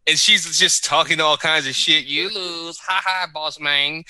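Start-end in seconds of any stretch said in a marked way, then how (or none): 2.1-4.0 put-on slow, taunting Belter accent; mock Sakai in a gloating Belter accent; light sing-song Belter accent taunt. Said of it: "That accent is the best accent".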